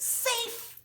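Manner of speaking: high, mock umpire "Safe"; umpire call. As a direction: sing out the call across the field. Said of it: "He says".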